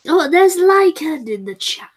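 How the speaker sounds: hushed aside; whisper. Real, not acted. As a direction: whisper it under your breath.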